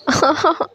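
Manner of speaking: badly faked little boo-hoo; childish fake crying. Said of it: "acting करने लगती है रोने की तरह". (बच्चों जैसा रोने का नाटक)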